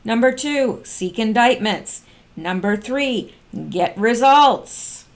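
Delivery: "number two" and "get results" punched slow; emphatic counting. Shown as a demonstration. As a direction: count off each point. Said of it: "counting points emphatically".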